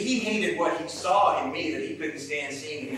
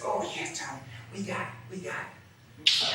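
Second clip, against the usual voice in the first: unconvincing reply; 6 semitones higher, 4 dB quieter, slower than usual. Acted. Dixie covering with a lie.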